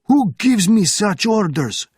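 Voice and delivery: high, loud slow indignant shout. Acted. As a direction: bark back in outrage. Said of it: "shouted the officer".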